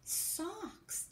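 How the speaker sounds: very slow, each word set apart; slow dictation. Shown as a demonstration. Teacher rereading the sentence to check the writing, very slow. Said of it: "Do you think we can tap that word?".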